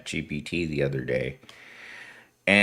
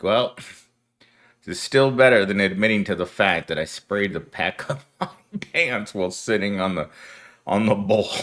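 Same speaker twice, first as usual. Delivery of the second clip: a laugh breaking into the retold thought; laughing through it. Laughing as he admits it to viewers. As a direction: chuckle your way to the end. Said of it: "And I was like".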